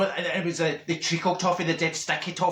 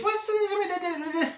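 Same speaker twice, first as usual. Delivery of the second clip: incredulous; 12 semitones higher than usual. Retold or imitated. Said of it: "And I says".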